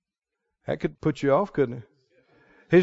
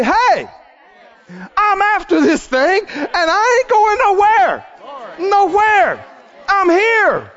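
determined woman; 11 semitones higher, slower than usual. Acted. The persistent woman to Jesus, defiant shout. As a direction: plant your feet and refuse to leave. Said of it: "that'll say".

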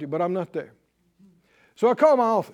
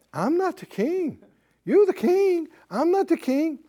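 pitched-up helpless staffer whining back; high whiny refusal; 9 semitones higher than usual. Retold or imitated. Secretary whining to the king on the phone. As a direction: play the nervous aide, voice raised.

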